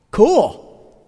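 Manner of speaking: a relaxed, unbothered "Cool."; casual cool. Retold or imitated. Abraham answering God's promise, breezy and casual. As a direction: shrug it off, totally chill. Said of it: "simply did this".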